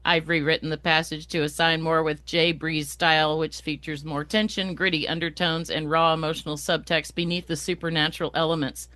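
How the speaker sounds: flat robotic reading. Shown as a demonstration. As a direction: read it like a robot, no feeling. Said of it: "should read this like a robot".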